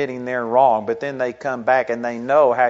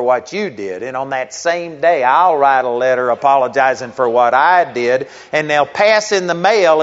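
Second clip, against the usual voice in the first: louder, pushy dictating tone; retold railing; 6 dB louder than usual. Pastor dictating terms for mutual apology, loud and insistent. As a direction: press the deal on him, voice raised. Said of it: "and he started railing on me".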